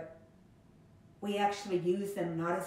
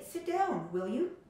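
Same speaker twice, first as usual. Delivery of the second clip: friendly request; 5 semitones higher, slower than usual. Shown as a demonstration. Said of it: "I can say".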